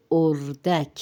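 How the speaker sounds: اردک as "or-dak", both syllables distinct; careful pronunciation. Shown as a demonstration. Teacher asks learners to notice the word, careful pronunciation. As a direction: model اردک carefully with a clear final "dak". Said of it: "تلفظ پہ غور کرے".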